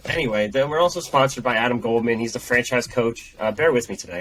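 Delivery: stuffed-up nasal voice. Real, not acted. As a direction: talk through a blocked nose. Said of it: "I got this nasally ass voice".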